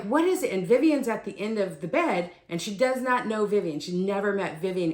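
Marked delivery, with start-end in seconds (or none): 0.0-0.5 high, loud reenacted alarm; urgent questioning. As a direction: ask urgently, reliving the rush. Rushes to mother who yelled.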